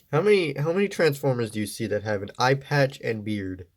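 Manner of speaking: stuffy voice from a blocked nose. Real, not acted. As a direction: speak through a stuffy nose. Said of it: "apologize if my voice sounds a little stuffy".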